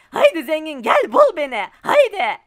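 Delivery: loud teasing call across the maze. Real, not acted. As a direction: shout a dare to come find you. Calling out to seeker in maze.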